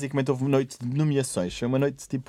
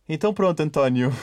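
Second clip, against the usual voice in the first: Cristina; 2 semitones higher than usual. Retold or imitated. Host to contestant as if nothing happened, pávida e serena. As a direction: imitate a host carrying on serenely. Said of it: "pávida e serena".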